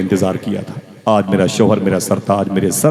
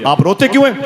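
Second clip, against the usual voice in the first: baffled plea; 9 semitones higher, faster than usual. Acted. Amina asks weeping tribe.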